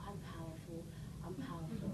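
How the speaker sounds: low and limp with no energy; flat, unconvinced. Shown as a demonstration. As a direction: say it like you don't believe it. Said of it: "If I sit here and go".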